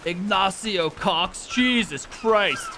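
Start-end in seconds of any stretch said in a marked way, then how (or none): 0.1-1.4 slow, relishing each syllable; drawn out in disbelief; savoring the name. Real, not acted. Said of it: "This is the most gangster name".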